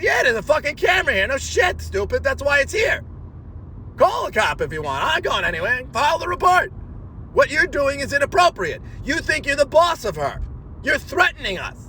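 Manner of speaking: high, heated comeback with shouted bits; firing back at a threatening man, pitch way up; retold angry yelling. Woman yelling back at the threatening customer, heated shout. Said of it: "And I said".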